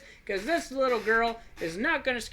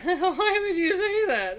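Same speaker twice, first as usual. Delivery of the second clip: higher, louder, slow, laughing through a big smile; smiling laugh; 12 semitones higher, 8 dB louder, slower than usual. Shown as a demonstration. Babysitter laughs off the creepy warning, smiling. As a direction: answer the girl with a grinning laugh. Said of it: "this is a smile I would use for that".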